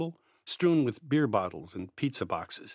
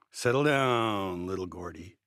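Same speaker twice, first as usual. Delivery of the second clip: chuckling; 3 semitones lower than usual. A narrator's reading. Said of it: "he chuckled".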